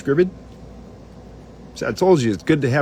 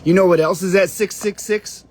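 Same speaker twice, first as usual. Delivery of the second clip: raised, excited teaser pitch; high dramatic reveal; 7 semitones higher, 4 dB louder than usual. Shown as a demonstration. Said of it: "Oh, wait, no, wait".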